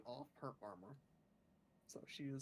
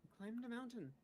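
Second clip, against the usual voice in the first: lightly voiced, slightly higher adventurer; halting adventurer character; 4 semitones higher, slower than usual. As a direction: recount your day piece by piece, pausing between words. Player answers in character as Rakona.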